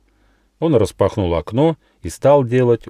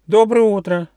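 much higher squeaky mouse voice, drowsy; sleepy little mouse; 13 semitones higher, 5 dB louder than usual. Acted. Mouse Gosha waking up asks the gnome, high mouse voice. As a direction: peek out with one eye and ask sleepily.

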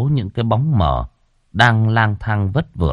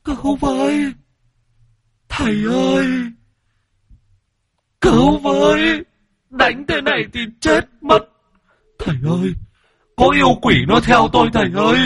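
high, panicked cries for help; terrified wailing. A narrator's reading. Possessed woman wailing to the shaman for rescue. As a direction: scream for the master to save her. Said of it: "rồi gào khóc".

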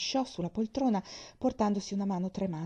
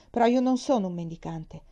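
offended; 6 dB louder than usual. Acted. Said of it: "aggiunse da ultimo offeso".

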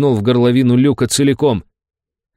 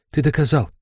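whispery telepathic voice; 5 semitones higher than usual. A narrator's reading. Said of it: "Тихий вкрадчивый голос".

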